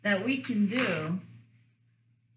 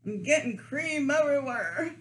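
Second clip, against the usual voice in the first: laughing; 6 semitones higher than usual. Real, not acted. Laughing at messy cream.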